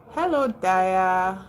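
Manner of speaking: normal talking voice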